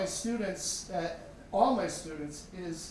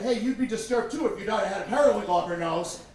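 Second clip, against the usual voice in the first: indignant retort; 5 dB louder, faster than usual. Retold or imitated. Dad defends himself to nurse.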